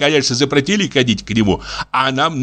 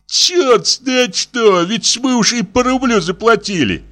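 groan; 11 semitones higher than usual. Acted. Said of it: "простонал".

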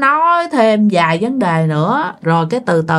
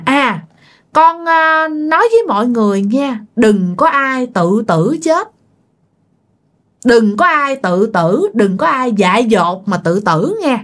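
spirit's warning; 2 semitones higher than usual. Retold or imitated. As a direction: urge them gently but gravely, as the dead girl. Spirit warns family against suicide. (giọng vong hồn dặn dò, chậm và cao)

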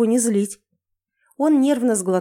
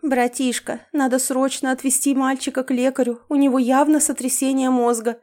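higher, fretting fake concern; fussing lament; 4 semitones higher than usual. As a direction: fuss over him like a worried sister. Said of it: "продолжила причитать я".

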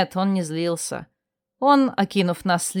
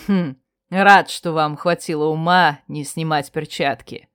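amused; 5 semitones lower than usual. Acted. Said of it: "весело хмыкнул и сказал".

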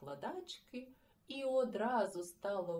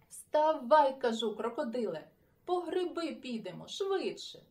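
loud, high urging call; shouting; 4 semitones higher, 7 dB louder than usual. Acted. Boy shouting at friend to get up, loud. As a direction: hurry him up with a shout. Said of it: "вигукнув Сашко Циган".

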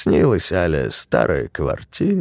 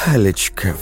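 exhaled. Acted. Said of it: "вдруг выдохнула бабушка".

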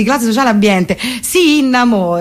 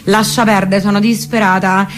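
put-on chattering Parioli girl on the phone; posh Roman girl. Flami complaining to her friend about the ex downstairs, lightly voiced posh girl. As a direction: gossip breathlessly to a friend.

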